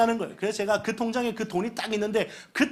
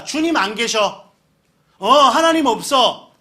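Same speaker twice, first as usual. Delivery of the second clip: slow, louder declaration; faithless verdict; 2 semitones higher, 6 dB louder, slower than usual. Retold or imitated. Thirsty Israelites declaring God absent, slow and loud. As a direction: flatly pronounce that God is gone.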